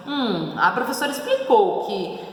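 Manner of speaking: lightly ironic, with a musing hum; a touch of sarcasm; mildly sarcastic. Acted. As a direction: read it as if wryly doubting. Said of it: "Sarcástico, meio irônico".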